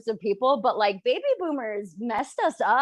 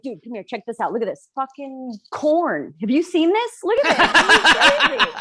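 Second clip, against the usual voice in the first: excited stranger; 8 dB louder than usual. Retold or imitated. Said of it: "I'm like".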